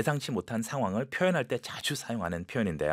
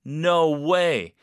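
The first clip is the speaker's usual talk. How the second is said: amazed disbelief; 4 semitones higher, 5 dB louder than usual. Shown as a demonstration. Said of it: "기가 막히다".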